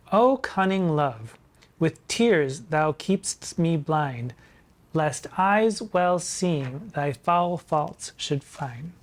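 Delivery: slow, measured poetry reading; slow theatrical verse reading; dramatic recitation. Acted. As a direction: savour each word of the couplet. Reads the couplet dramatically.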